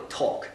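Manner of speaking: no L at all in talk; silent L. Shown as a demonstration. Teacher repeats the example for learners, silent L in talk. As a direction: talk with the L unspoken, "tawk". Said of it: "on ne prononce pas le L".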